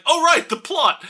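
high, loud remembered-it exclamation; mock sudden realization. RoboCop suddenly remembering the plot, high and loud. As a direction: snap to it as if remembering. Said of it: "RoboCop is like".

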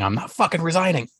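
mock Boris Johnson. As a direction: toss it off like a cocky politician. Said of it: "him saying".

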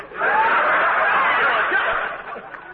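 squealing burst of laughter; high breathy laugh. Real, not acted. Laughing at jealous jab.

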